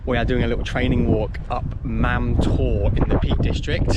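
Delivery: loud voice over the wind; shouting over wind. Real, not acted. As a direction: raise your voice above a gale. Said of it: "Hopefully you can hear me through the wind".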